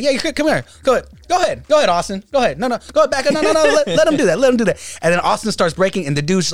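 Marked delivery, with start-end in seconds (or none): 0.0-5.0 higher, louder teasing hype; mocking Abe hype. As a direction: egg him on mockingly. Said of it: "And he's like".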